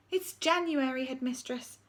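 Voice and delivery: high, breathy appeal; secretary begging Miss Seeth; pleading secretary. Acted. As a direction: plead with the raging deputy. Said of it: "corrected the secretary".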